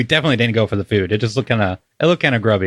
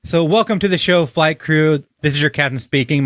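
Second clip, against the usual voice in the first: airline captain voice; 4 semitones higher than usual. Acted. Plays airline captain on intro.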